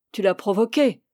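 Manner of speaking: accusation jalouse encore retenue. Acted. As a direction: constater la faute, sans forcer. Amant jaloux accuse, première fois. (reproche jaloux contenu)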